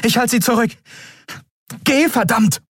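high, insistent shout; captain shouting at Kai to run; urgent order. Acted. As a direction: drive him away while covering.

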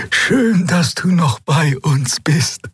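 put-on slow, high old healer's voice; dragging voice. A narrator's reading. Old healer Xea greets Endriel, slow dragging voice. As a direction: draw the words out slowly, gently. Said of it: "ihre schleppende Stimme".

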